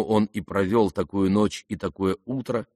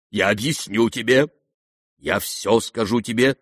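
usual speaking voice

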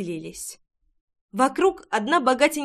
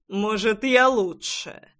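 pushy flirt; slower than usual. Acted.

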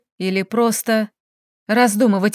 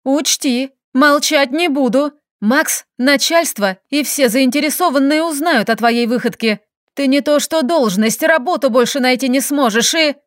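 threatening; 3 semitones higher than usual. Acted. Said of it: "пообещала".

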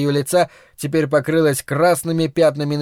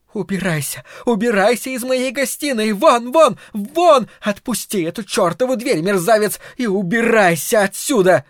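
screaming fury; 7 semitones higher than usual. A narrator's reading. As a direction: scream him out of the room. Mother screaming at husband.

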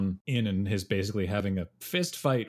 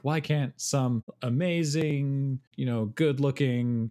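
stilted delivery; 5 semitones higher, 3 dB louder than usual. Retold or imitated. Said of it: "it's very stilted delivery".

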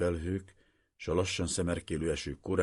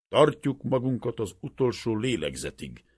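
put-on creaky old soldier; 7 semitones higher, 7 dB louder than usual. A narrator's reading. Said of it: "az öreg harcos recsegő hangját".

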